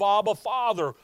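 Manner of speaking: a loud plea to the father; crying out. Retold or imitated. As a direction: call it out like a desperate cry. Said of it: "think about that cry of".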